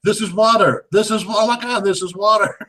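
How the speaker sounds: high, amazed exclaiming, laughing at the end; mock amazement. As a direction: gush over the water in jest. Mocking characters' joy at rain.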